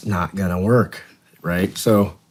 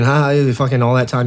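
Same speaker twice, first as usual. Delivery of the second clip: mocking gloat; 5 semitones higher, 4 dB louder than usual. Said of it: "not go".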